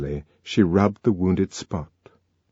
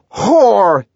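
loud, high bellow of abuse; explosive angry shout; furious shout; 11 semitones higher, 8 dB louder than usual. A narrator's reading. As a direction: hurl it out in a rage. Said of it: "he shouted".

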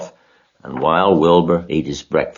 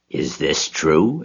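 suspicious; slower than usual. Acted. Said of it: "eyeing the sac suspiciously".

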